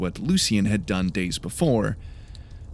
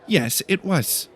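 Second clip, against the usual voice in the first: sniffy; 7 semitones higher, slower than usual. A narrator's reading. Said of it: "she said with a sniff".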